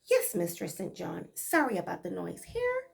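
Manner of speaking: light Bajan dialect reply; a hint of Barbados speech, dutiful; Bajan accent. Maid answering her mistress in Bajan dialect. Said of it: "this is Bajan dialect".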